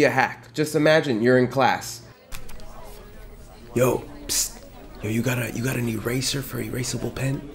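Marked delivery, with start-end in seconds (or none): 3.8-7.5 hushed student asking for an eraser, softer; classroom whisper. Acted. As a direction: whisper it so the teacher won't hear.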